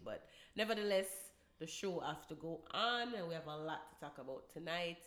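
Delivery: blocked nose, under the weather; stuffy nose. Real, not acted. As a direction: talk through a stuffy cold nose. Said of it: "we might sound a little bit stuffy".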